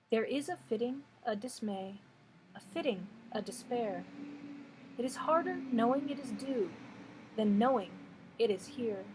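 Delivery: measured poem recital, pausing after each line; poetry reading. Acted. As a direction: read the verse unhurriedly, letting line endings fall away. Reads a poem aloud.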